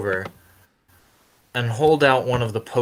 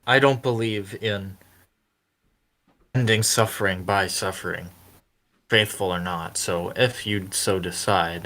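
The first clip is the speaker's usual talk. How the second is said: soft, calm; 4 semitones lower, 3 dB quieter than usual. Acted. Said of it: "Oz is gonna say".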